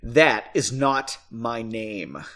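vitriol. Acted. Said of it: "replied with vitriol".

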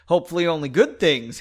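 light, sociable greeting; friendly tone. A narrator's reading. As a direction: say it as a friendly opener. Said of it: "in a friendly tone".

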